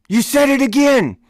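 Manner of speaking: high, loud gotcha bark; mock sergeant yelling in triumph; retold drill sergeant shout. Sergeant retold catching private.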